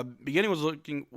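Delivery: normal talking voice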